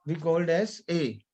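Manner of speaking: "A" as a closed ay; acute-accent E. Shown as a demonstration. Teacher repeats the sound for learners, acute-accent E. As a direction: end on "A" said as French é. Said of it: "The sound".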